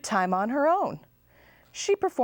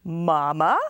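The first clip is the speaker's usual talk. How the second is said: astonished question; 5 dB louder than usual. Acted. Both girls stunned by chicken mother.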